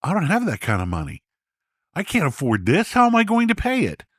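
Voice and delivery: panicky, rising to a high rushed plea; a man stunned by a tax bill, pleading; distraught. A narrator's reading. Gene pleads distraught with accountant Jim over the bill. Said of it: "clearly distraught".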